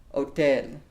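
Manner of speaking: hotel said oh-TEL with no h sound; silent h. Shown as a demonstration. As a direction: clear teacher model of hotel without h. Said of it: "the H in Spanish is silent".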